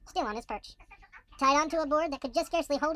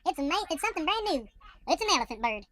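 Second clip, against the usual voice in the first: amazed cheering; 3 semitones higher than usual. Acted. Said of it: "they shouted".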